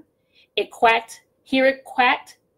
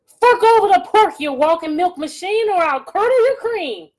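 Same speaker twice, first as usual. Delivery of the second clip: high, loud threatening witch; witch threat; 9 semitones higher, 6 dB louder than usual. Acted.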